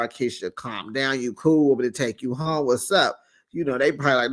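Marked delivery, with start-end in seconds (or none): 0.1-3.2 soothing friend. Retold or imitated. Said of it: "Gucci go out there".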